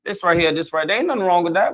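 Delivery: sweet, courteous tone to the husband; kind voice. Shown as a demonstration. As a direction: soften it like you're politely raising a point with babe. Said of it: "in a very kind voice".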